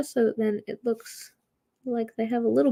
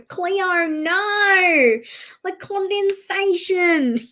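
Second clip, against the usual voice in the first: higher pitched mock exasperated husband; imitating husband; 9 semitones higher, much slower than usual. Husband groaning at her videos, mock exasperated. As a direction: whine it like a fed-up husband. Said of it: "my husband always goes".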